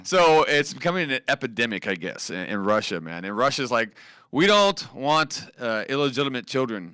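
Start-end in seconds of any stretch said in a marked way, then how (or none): 4.3-6.9 put-on a clumsy joke Russian accent, dragged out; weak imitation of a Russian official; bad Russian accent. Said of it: "that was my Russian accent".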